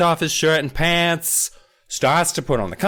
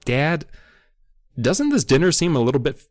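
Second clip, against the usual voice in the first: measured, lower-pitched reading aloud; story narration; 6 semitones lower than usual. A narrator's reading. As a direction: read the passage like an audiobook narrator. Reads book passage aloud.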